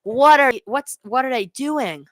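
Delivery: high, incredulous fan's complaint; exasperated disbelief. Real, not acted. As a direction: protest in frustrated disbelief, stumbling into it. Fan fuming at horrible pass.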